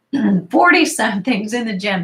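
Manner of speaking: rough morning voice, throat clearing; husky morning voice, just woke. Real, not acted. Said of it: "Sorry, morning voice".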